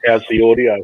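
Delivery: hollow cardboard-tube muffled voice; like speaking into a paper tube; through a toilet roll tube. Real, not acted. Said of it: "you're talking through a toilet roll tube".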